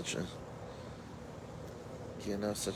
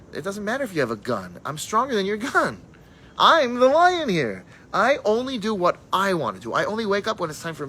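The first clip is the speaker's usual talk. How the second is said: defiant proud roar; 8 semitones higher, 6 dB louder than usual. Acted. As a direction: stand like a lion and declare it. Defiant Jew facing gunman.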